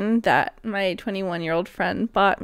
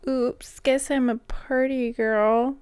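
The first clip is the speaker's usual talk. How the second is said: put-on pick-me girl; 4 semitones higher, slower than usual. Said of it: "impression of a pick-me girl".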